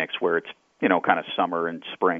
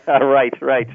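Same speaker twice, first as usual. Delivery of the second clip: laughing agreement; 7 semitones higher, 8 dB louder than usual. Real, not acted. Laughing at host's payroll joke.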